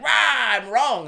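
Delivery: high, loud, slow hammed-up villain yell; mock scream. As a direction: parody his defeated roar. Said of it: "there's a bit where he screams".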